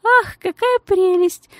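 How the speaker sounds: high, slow, cooing babble; sugary lady gushing in a high voice; babbling lady. A narrator's reading. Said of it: "залепетала дама".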